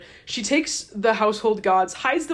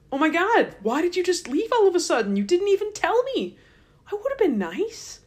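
mock Laban; 9 semitones higher than usual. Laban whining at Jacob.

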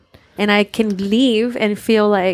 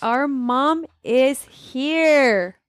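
teary greeting; 5 semitones higher, much slower than usual. Real, not acted. Greeting her mother, emotional.

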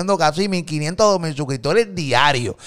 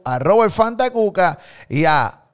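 loud, high hype-man shout; 6 semitones higher, 6 dB louder, slower than usual. Real, not acted. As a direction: fire up the crowd as they join. Host hypes guests joining podcast.

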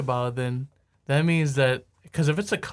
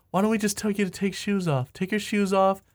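high put-on musician voice; imitated Beatle; 5 semitones higher than usual. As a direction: pitch the silly idea in a raised voice. Acting out a Beatle planning cover.

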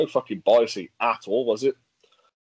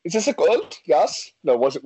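higher, badly put-on Swiss accent; mock Swiss referee accent; 5 semitones higher than usual. Swiss referee unsure about the goal, mock accent. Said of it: "What else could do in that accent for?".

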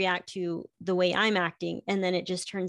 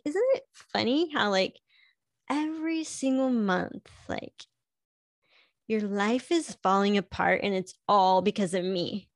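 husband teasing. Retold or imitated. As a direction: needle her knowingly. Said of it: "he's like".

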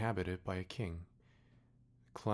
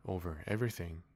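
king answering simply. Acted. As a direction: state it grandly and simply. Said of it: "with magnificent simplicity".

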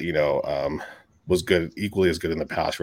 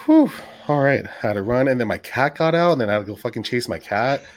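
panting after running around; words pushed out between breaths; 5 semitones higher than usual. Real, not acted. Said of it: "It sounds like you're a little out of breath there".

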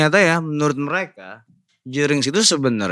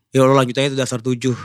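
dying man voice; 5 semitones lower, much faster than usual. Retold or imitated. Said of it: "Jadi kayak orang udah mau mati gitu".

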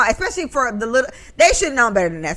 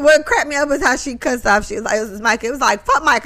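ordinary delivery

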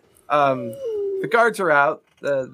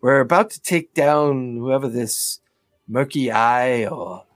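busy dry character; 2 semitones lower than usual. Acted. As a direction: play a busy schemer addressing a dear. Game master plays the dear-calling character.

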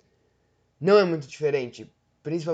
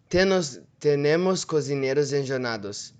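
put-on a light Latin American Spanish accent; imitated Spanish accent. Reading an example to viewers in a Spanish accent. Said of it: "o espanhol é um pouquinho mais fácil".

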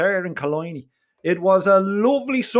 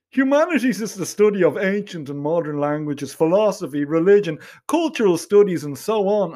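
lightly voiced Donnybrook snob listing subjects; a touch of condescending Donnybrook accent; smug Donnybrook accent. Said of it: "in that smug Donnybrook accent of his".

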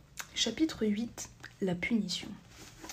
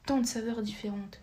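exclaiming. Acted. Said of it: "s'exclama-t-elle".

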